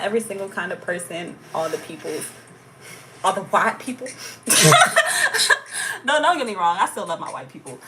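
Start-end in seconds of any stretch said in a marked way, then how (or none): 4.1-6.0 high giggle trailing down; cheeky laugh. Real, not acted. Laughs after white people joke.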